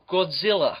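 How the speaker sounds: "Godzilla" mimicked as "Gawd-zilla", British style; imitated pronunciation. Co-host echoing how the designer says it, "Godzilla" as British "Gawd-zilla". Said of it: "He does say it that way".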